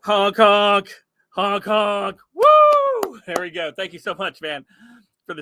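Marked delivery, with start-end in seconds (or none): 0.0-2.2 loud mock clown honking. Streamer reading a super chat, honking loud. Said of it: "super chat says". 2.3-3.2 high, loud whoop of delight. Real, not acted. Streamer thanking a viewer, loud high whoop. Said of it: "celebrating a super chat".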